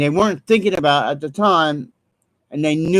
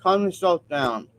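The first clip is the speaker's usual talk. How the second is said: "Calm yourself down" dropped softer; softer calm demo; 5 dB quieter than usual. Shown as a demonstration. Showing viewers how he calms himself, softly. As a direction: ease the words out gently. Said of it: "That's how I do it".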